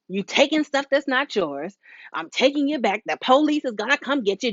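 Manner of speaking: mock scolding mom threatening to call the police; mock yelling mom. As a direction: rant like an angry threatening parent. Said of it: "She didn't say".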